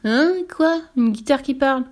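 high, loud disbelieving director; astonished boss; incredulous. Acted. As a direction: blurt it in disbelief. Director cannot believe it.

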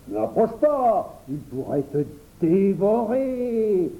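slow, drawn-out teasing caution; mock warning. Henri mockingly warns the boy about the frog. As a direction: tease with a fake solemn warning.

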